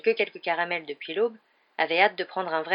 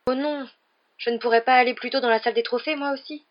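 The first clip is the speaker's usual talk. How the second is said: higher, pleading plea; despairing; 6 semitones higher, 5 dB louder than usual. Acted. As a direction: beg to be spared, in despair. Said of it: "d'un ton désespéré".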